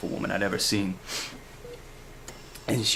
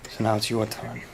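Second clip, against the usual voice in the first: menacing threat; 5 dB louder than usual. Acted. Blackmailing threat to a rival.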